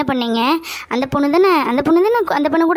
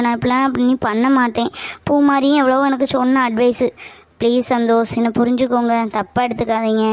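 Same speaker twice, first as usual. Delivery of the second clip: low, remorseful apology; contrite pleading; 4 semitones lower than usual. Acted. Girlfriend begging Santhosh to forgive her mistake, contrite pleading.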